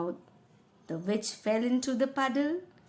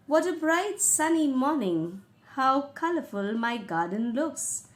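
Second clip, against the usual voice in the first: cheerful king; 3 semitones higher, 4 dB louder than usual. Acted. Teacher voices the king's lines.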